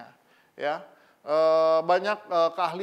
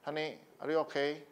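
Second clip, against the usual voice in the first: awkward imitated tenderness; 2 semitones lower, 6 dB quieter than usual. Stiff husband practising on his wife, awkward tenderness. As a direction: try tenderness without quite having the tone. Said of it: "Meskipun nadanya belum bisa gitu".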